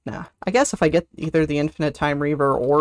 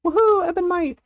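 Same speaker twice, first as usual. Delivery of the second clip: high whoop, then the spell name; excited whoop; 13 semitones higher than usual. Real, not acted. Streamer cheering a buff, excited. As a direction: shout it out in delight.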